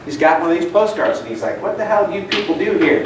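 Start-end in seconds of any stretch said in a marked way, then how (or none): 1.6-3.0 mildly irritated retold demand. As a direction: imitate an annoyed visitor, a touch testy. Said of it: "And really irritated".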